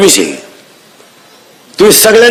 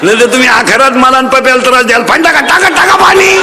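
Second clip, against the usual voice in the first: mock frantic nagging; 2 semitones higher than usual. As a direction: mimic nagging wound up to breaking point. Acted nagging reaches its climax.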